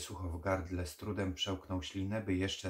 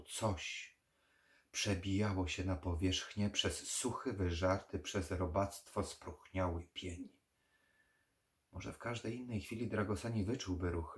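usual speaking voice

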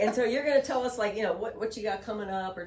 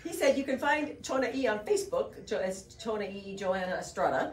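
put-on voice. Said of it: "Why are you changing your voice now?".

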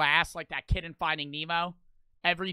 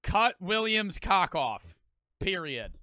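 slow, deliberate dictation; writing it out; slower than usual. Pretend. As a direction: dictate the wish slowly into a book. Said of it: "I would write in the book".

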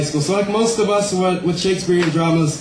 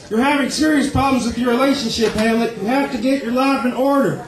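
Doctor Phil; 4 semitones higher than usual. Acted. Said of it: "Doctor Phil is Polonius".

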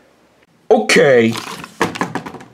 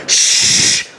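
shush. Acted. Shushing as movie starts.

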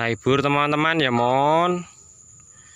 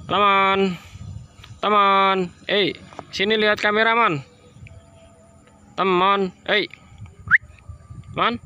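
coaxing pet voice; 7 semitones higher than usual. Real, not acted. Owner coaxing his pigeon toward the camera, high baby talk. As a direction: sweet-talk the pigeon into looking.

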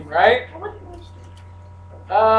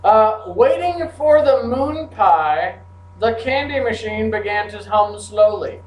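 slow reading; slower than usual. Shown as a demonstration. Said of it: "here are a couple".

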